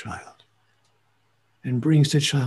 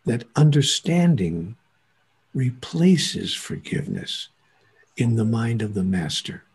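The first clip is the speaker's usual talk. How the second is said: slow emphatic; 3 semitones lower than usual. Shown as a demonstration. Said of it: "Write that on your bathroom mirror".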